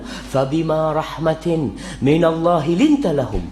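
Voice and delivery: slow melodic Quranic chant; Quran recitation. Acted. Preacher recites the verse to the congregation, slow chant. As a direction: recite the verse slowly and reverently.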